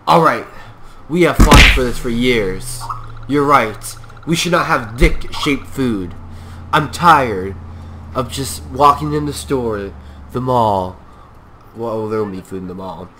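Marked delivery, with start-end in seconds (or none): 0.1-11.0 loud, fired-up protest speech; hammed-up activist rant; mock rally speech. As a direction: rouse the crowd against dick-shaped food. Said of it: "I just get really excited about, you know, these speeches".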